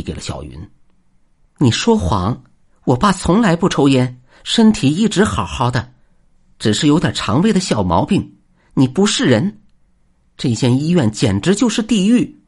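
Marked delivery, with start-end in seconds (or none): 1.6-12.4 high, loud crying shout; angry crying. Acted. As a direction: scream the accusation through tears. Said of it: "小云边哭边喊着".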